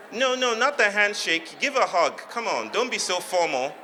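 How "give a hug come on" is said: ordinary delivery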